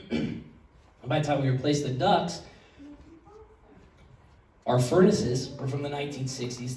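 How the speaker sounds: soft, halting, holding back emotion; real emotion catching in the throat, hushed, with long pauses; choked up. Real, not acted. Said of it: "I'm getting all choked up".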